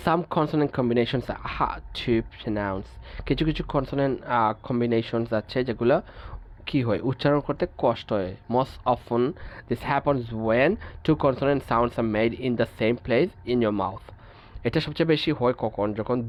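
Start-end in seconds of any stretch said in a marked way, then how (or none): 0.1-2.9 each English word read out slowly and evenly; measured, deliberate reading of a textbook rule. Acted. 8.5-14.0 each English word read out slowly and evenly; measured, deliberate reading of a textbook rule. Acted.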